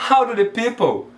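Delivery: HOW DO THE PEOPLE run together as one word; linked pronunciation. Shown as a demonstration. Teacher demonstrating connected English, words linked. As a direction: join "how do the people" with no gaps. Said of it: "junta a pronúncia dessa palavra como se fosse uma palavra só".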